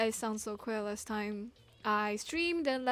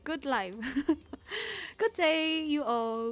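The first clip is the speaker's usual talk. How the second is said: lively, higher streamer hello; playful hyped greeting; 4 semitones higher, 3 dB louder than usual. Real, not acted. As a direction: sing out the greetings with big swoops. Streamer's hyped mock greetings to viewers.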